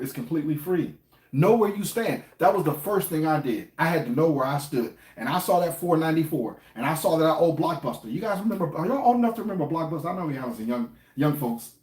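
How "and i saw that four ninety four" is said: ordinary talk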